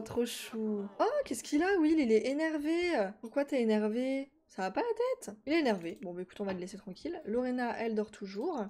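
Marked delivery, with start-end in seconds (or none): 4.5-5.4 exclamation indignée qui monte très haut; s'offusquer d'un coup, la voix qui grimpe; indignation surprise. Real, not acted. S'indigne contre le Sim énervé. (indignation aiguë et surprise)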